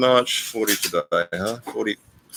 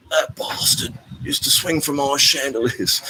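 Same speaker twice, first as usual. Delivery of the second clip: higher, put-on Geordie accent; Geordie accent impression; 8 semitones higher than usual. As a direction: mimic a Geordie rocker with the Geordie accent. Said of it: "in his best sort of Cockney accent".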